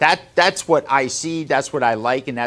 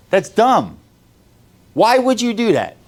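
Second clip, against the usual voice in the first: higher, louder disbelieving question; exasperated outburst; 7 semitones higher, 4 dB louder than usual. Real, not acted. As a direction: throw the question out loud in disbelief. Exasperated rant at employees.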